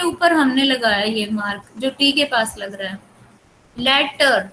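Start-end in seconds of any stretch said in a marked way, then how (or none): 3.8-4.5 लेटर with the weight on लेट; primary stress on first syllable. Shown as a demonstration. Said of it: "लेट primary है".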